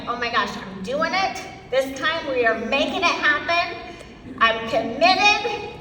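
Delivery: acted-out pep and resolve, rising as it goes; fired up. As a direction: declare it like a pumped-up newcomer. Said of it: "I would get so fired up".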